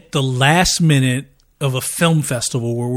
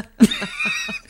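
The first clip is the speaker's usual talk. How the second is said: high laugh. Real, not acted. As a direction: burst into a squealing laugh. Embarrassed laugh after the phone story.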